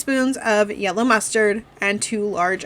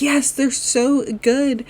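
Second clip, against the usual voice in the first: put-on higher, slow little-girl voice; mock child gushing over potatoes; imitating a kid; 6 semitones higher, slower than usual. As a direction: play the daughter answering, sweet and drawn out. Daughter Lily voiced in retelling.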